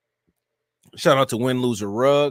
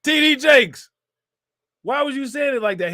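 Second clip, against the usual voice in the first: high-pitched calling out, loud at first; mock incredulous scolding; 10 semitones higher, 4 dB louder than usual. Streamer questioning the absent reverend, mock incredulity. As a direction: call him out in amused disbelief.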